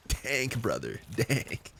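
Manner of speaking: slow stoner approval; laid-back stoner drawl. Retold or imitated. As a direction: savour the word dank like a stoner. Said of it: "some people that actually sound like that".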